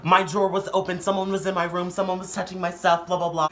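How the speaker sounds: indignant ranting. Retold or imitated. Sister complaining about her drawer, indignant. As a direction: rattle off the accusations, imitating an upset sister.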